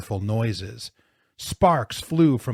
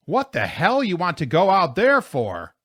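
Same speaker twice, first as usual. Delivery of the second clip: loud, high, blustering question; incredulous shout; 7 semitones higher, 6 dB louder than usual. A narrator's reading. Plow driver baffled by their destination, incredulous shout. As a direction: holler it in disbelief.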